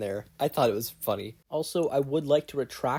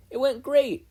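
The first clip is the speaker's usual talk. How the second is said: high, happy cheer; 13 semitones higher, 6 dB louder than usual. Acted. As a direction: cheer it out, thrilled. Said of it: "Izuku cheered".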